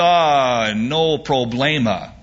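lightly voiced Cuban accent, slow and easy; a hint of a relaxed Cuban accent. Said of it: "said the Cuban".

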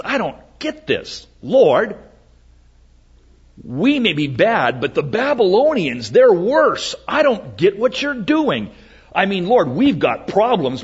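bewildered complaint to God, lightly acted; protesting prophet. Prophet questioning the Lord about the Babylonians, mild protest. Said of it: "Habakkuk says".

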